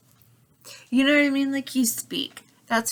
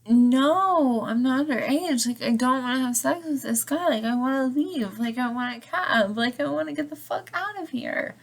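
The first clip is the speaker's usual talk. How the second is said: higher-pitched, insistent mock pleading; retold desperate plea; 4 semitones higher than usual. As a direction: imitate an urgent protest, pitched higher. Retold plea to the hotel manager.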